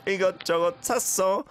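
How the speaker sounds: 샀어 said high with a crisp doubled ㅆ; clear 샀어. Shown as a demonstration. Teacher models 샀어 clearly after the last caller. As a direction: lift and sharpen the 샀어, fast. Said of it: "샀어 is what we have to say a bit more clearly".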